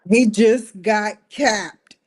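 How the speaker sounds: loud, slow news-flash delivery; loud slow announcement. Real, not acted. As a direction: announce it loudly and slowly. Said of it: "repeats announcement".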